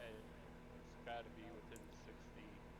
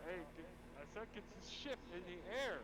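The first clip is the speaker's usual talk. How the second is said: raised, hurried mock yell; half-hearted scream; 6 semitones higher, 4 dB louder, faster than usual. Player's character ordering the ship into the air, mildly screamed. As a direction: call out fast in a mild pretend scream. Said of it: "it's gonna scream out".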